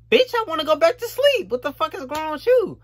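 hammed-up annoyed worker voice; mock grumpy yell. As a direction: throw a cranky fit at the boss. Mocking the early shift mood.

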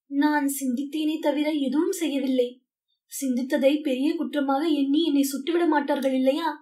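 a touch of anxious begging; mild pleading. Acted. Parsons, terrified prisoner, begs Winston with mild pleading. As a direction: plead gently for reassurance, understated. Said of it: "கெஞ்சுகிற குரலில் சொன்னான்".

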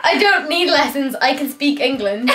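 put-on English accent with laughter creeping in. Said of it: "Is that English?".

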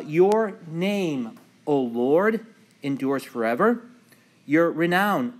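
emphatic liturgical recitation, rising and falling; psalm reading. Acted. Pastor opening Bible study with the introit, emphatic psalm reading. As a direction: read scripture out to the congregation in measured phrases.

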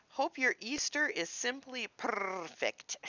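slow, sweet put-on cat voice; hint of a cute cat voice; lightly voiced cat. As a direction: read it as the cat would. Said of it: "And it says".

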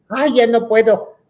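high, slow, frightened cries for help; stuck hanging up high, begging the kids to grab her, panicked yell. Retold or imitated. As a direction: wail stretched out, stuck up on the bar. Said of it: "Y gritaba yo".

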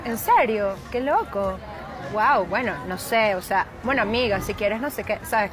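imitation of a posh Caracas speaker; Caracas fresa accent. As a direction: put on a preppy Caracas accent. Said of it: "si eres como un fresa caraqueño".

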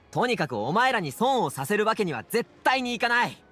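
forceful insistence; insistent. Acted. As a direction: put your foot down firmly. Insists on repaying friends' money.

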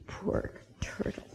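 breathy whisper of sympathy; soft pitying whisper. A narrator's reading. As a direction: hush it like a sad secret. Sympathetic aside to children.

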